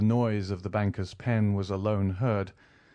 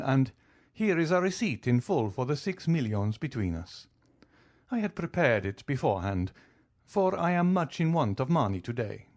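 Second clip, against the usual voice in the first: lightly voiced count, cool and amused; an easy, teasing nobleman calmly pressing his claim; 5 semitones higher than usual. Count calmly teases the banker over his millions, lightly voiced.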